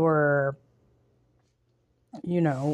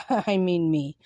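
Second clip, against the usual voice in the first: laughing; 2 semitones higher than usual. Real, not acted. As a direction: repeat it with a little laugh. Repeats the joke, laughing.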